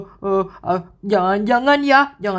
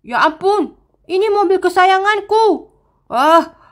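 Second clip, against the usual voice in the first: higher, lamenting over her beloved car; distraught wail; 8 semitones higher than usual. Acted. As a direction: cry out for the ruined car.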